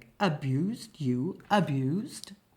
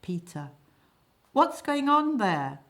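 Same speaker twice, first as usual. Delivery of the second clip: astonished; 4 semitones higher, 5 dB louder than usual. Acted. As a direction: call down, loud and astonished. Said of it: "A voice from above, astonished".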